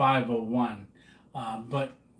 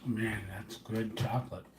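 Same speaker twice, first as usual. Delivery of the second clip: chewing noisily; 4 semitones lower, 10 dB quieter than usual. Real, not acted. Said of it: "I'm eating in front of you".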